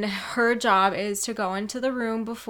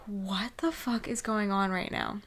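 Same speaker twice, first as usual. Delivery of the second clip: shocked whisper; 5 dB quieter than usual. Retold or imitated. Inner reaction, shocked in the room.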